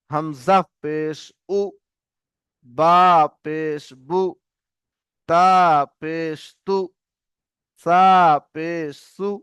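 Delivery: slow spelling drill, short "উ", "বু", "তু", "সু"; letter, pause, then a brief u syllable; short u vowel. Shown as a demonstration. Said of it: "পেশের আওয়াজ হচ্ছে হর্ষউ". (হ্রস্ব উ দিয়ে "উ", "বু", "তু", "সু")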